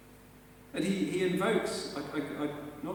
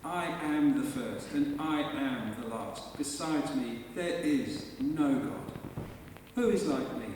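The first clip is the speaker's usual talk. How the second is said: slow, weighty, each word pressed down; emphatic voice of the Lord; slower than usual. Acted. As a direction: proclaim it slowly like God declaring Himself. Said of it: "he's really, if you like, saying it".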